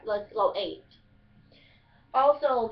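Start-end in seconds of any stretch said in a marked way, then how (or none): 0.1-0.8 Kentucky "ate" with a long A for eat; Kentucky dialect. Shown as a demonstration. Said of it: "So you just say ate".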